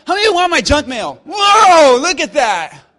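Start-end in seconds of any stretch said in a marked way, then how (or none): 0.1-1.2 louder repeat. Acted. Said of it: "Let me ask again". 1.3-2.0 loud, high whoa of surprise; surprised shout. Real, not acted. Reacting to raised hands.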